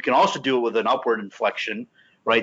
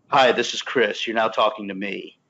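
late night DJ voice. Shown as a demonstration. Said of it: "Like that real D J voice".

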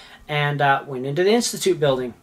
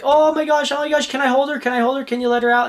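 high, gushing retold pleading; so excited; 9 semitones higher, faster than usual. Owner begging shelter staff to hold her mink, excited. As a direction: act out bursting to hold your pet. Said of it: "oh, I'm so excited".

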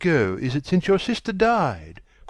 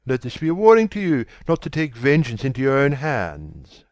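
loud, brisk admonition; stern warning; 2 semitones higher, 6 dB louder, faster than usual. A narrator's reading. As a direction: lecture him firmly.

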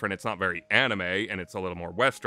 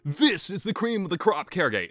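enthusiastic praise; 9 semitones higher than usual. Retold or imitated. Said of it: "I'm like".

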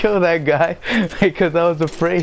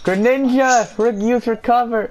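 anime trainer; 8 semitones higher than usual. Pretend. Anime trainer command parody.

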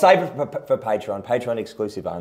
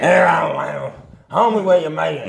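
hammed-up broad Aussie voice, higher and louder; mock Ocker accent; 7 semitones higher, 5 dB louder than usual. Teasing mates in a mock Ocker accent.

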